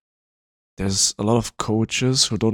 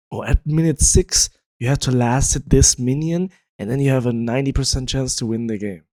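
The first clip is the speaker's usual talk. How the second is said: emphatic imitation of dogmatic advice, higher and louder; mock preaching; 3 semitones higher, 4 dB louder than usual. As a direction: parrot a simplistic rule with overdone conviction. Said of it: "what people preached for a long time".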